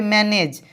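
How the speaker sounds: "मैनेज" ending in j, not g; final J sound. Shown as a demonstration. Teacher showing the GE rule, "मैनेज" ending on j. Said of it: "ज होगा".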